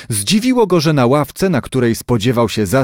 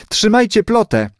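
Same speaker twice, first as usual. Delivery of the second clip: calling out; 9 semitones higher than usual. A narrator's reading. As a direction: call an order to brother and sister. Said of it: "zawołał Muniek do rodzeństwa".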